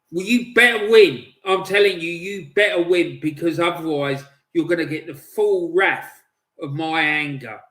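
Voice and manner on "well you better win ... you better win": loud, forceful warning; stern warning. Real, not acted. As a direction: warn them hard, hitting it loud. Fan sternly warning his team.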